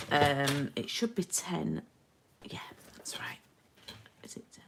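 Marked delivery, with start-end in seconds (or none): 2.4-4.6 very soft, whispered self-check; whispering to oneself. Real, not acted. Crafter checking a measurement to herself, whispering. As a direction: whisper it privately while double-checking.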